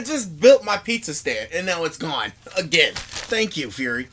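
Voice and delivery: annoyed New Yorker. Retold or imitated.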